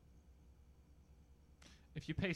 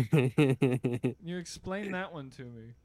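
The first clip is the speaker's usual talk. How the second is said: demanding; 10 dB louder, much slower than usual. Real, not acted. Demanding an explanation.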